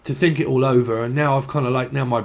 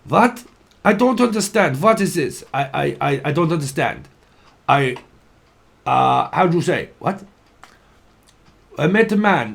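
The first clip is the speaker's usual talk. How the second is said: mock Russian accent; 2 semitones higher than usual. Reader retells a Russian Facebook video, mock Russian accent. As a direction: play a confused Russian, pitched up. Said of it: "it was Russian, I think".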